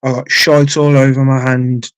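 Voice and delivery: panicked cry. Retold or imitated. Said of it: "I'm going".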